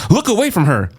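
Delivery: high, urgent shout. A narrator's reading. Annabeth shouting a warning to the boys. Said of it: "Annabeth shouted".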